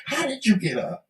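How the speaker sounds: breathy disbelieving whisper. Real, not acted. Disbelieving question to husband.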